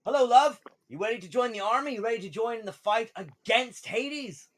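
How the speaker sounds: high, loud recruiter's pitch; drow recruiter. Acted. Drow recruiter greeting a would-be soldier, high hearty hail. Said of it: "the Drow recruiter, um, goes to Wendell and like".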